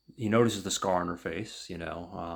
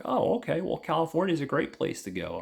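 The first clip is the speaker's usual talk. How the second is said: higher, louder chipper reply; mock enthusiasm; 9 semitones higher, 4 dB louder, faster than usual. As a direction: react with a touch of friendly eagerness. Retold driver reacts brightly to destination.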